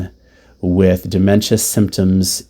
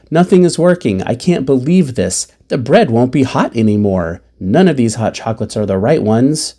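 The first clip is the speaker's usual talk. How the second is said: freaking out; 3 semitones higher than usual. Retold or imitated. Mother freaking in the hospital cafeteria, mildly exasperated. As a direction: voice a touch of frantic complaint. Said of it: "Mom is freaking".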